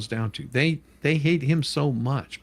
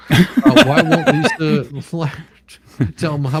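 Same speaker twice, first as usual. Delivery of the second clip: breaks into loud laughter on the name, high and louder; laughing; 3 semitones higher, 8 dB louder than usual. Real, not acted. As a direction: chuckle through the name as you read it. Laughing while reading super chat.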